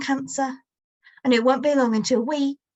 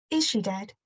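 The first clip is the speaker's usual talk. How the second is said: casual, softer, oddly detached; almost conversational; 4 dB quieter than usual. Acted. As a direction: ask it as if it barely matters. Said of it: "almost conversationally".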